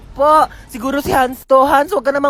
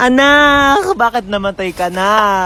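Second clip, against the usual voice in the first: mock crying; 2 semitones lower, much slower than usual. Mother mourning child.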